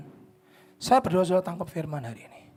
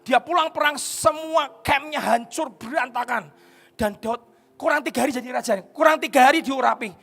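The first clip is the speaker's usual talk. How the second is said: high, loud preaching, driving each phrase home; preaching at full force; 6 semitones higher, 11 dB louder than usual. Acted. Preacher rousing the congregation about David, full-force preaching. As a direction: preach it to the back row.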